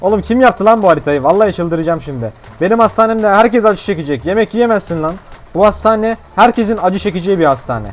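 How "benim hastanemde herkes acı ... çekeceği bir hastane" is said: mock villain owner.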